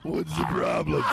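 snapping wife. Acted. Wife character snaps back.

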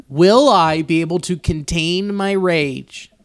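slowed right down, lightly menacing; slow mock menace. Joking to cohost about hurting the mascot, slow mock menace. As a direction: drag it out like a joke threat.

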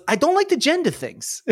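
high voice breaking into a laugh; laughing high quip. Acted. Mechanic correcting the player, high and laughing. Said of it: "He goes".

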